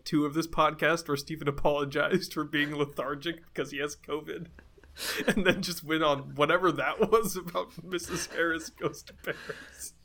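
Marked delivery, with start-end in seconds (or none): 5.3-9.9 words dissolving into breathless laughter; laughing in disbelief. Real, not acted. Co-host teasing a friend's film tangent, laughing. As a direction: crack up while recapping the ramble.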